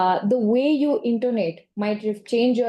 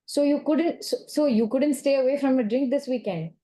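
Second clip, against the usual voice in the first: raised pitch, reproachful; judgmental tone; 4 semitones higher than usual. Shown as a demonstration. To the client about drinking, mildly judgmental. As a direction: let disapproval show. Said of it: "That's very different".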